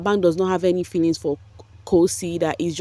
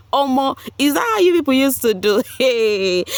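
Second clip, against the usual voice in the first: surprised; 7 semitones higher than usual. Real, not acted. Shocked reaction to gossip.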